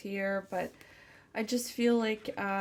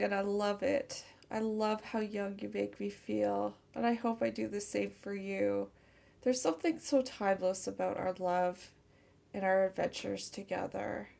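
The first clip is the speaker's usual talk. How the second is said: tender channeled lover. Acted. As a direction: speak as if to the one you love, gently. Channels partner's loving message.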